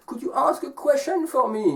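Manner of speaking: high-pitched little tree; tree asking. Acted. Small tree asking the resting man a favor, high voice. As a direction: lightly voice a small tree's high request. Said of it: "And the tree asks the man".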